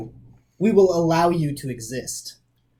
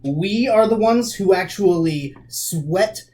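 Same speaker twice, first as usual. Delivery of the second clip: slow, rising indignation; indignant; 3 semitones higher, 4 dB louder, slower than usual. Acted. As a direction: lean on each word, offended. Angry retort at a brute.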